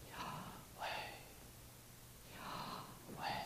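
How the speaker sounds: Yahweh breathed out unvoiced, no lips closing. Shown as a demonstration. Preacher demonstrating the breathed name Yahweh to the congregation. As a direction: breathe Yahweh as pure air. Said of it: "Can you hear that?".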